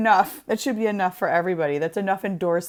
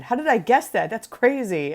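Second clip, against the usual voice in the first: sarcastic; 4 semitones higher than usual. Acted. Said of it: "I was being sarcastic".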